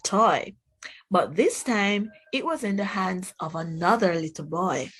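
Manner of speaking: put-on gentle storybook read for kids; reading to children. Teacher reading a picture book to the class, gentle storybook voice. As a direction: tell it like a picture book at circle time.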